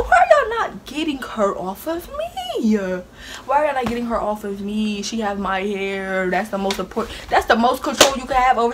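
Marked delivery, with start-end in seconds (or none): 0.0-2.8 high, slow desperate wail, half laughing; high pleading wail. Retold or imitated. Retelling the fight, she wails for help high and slow.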